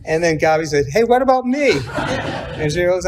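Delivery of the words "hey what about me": laughing mock plea. Second sister joins the joke.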